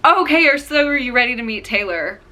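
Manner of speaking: high opening settling into the big question; Sierra. Retold or imitated. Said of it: "She's like".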